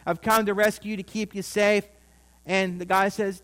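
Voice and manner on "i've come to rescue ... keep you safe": mock yell down. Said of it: "guys in the helicopter's yelling down to him".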